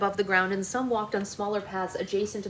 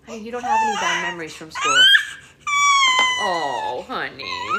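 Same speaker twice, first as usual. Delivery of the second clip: laughing; 6 dB louder than usual. Real, not acted. Listener laughs at the fairy voice.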